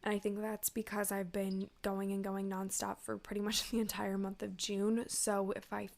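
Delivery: stuffy blocked nose, a bit breathless; congested. Real, not acted. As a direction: talk through a congested nose. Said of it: "if I sound a little bit congested".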